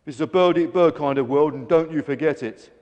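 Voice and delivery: loud, defiant tirade; shouting. A narrator's reading. Greedy gannet to protesting birds, shouted. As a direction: steamroll the objection at full volume. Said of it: "Grabby shouted".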